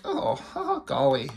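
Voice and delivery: playful hint of Mickey Mouse. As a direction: chirp it like a cartoon mouse. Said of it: "Mickey Mouse in that".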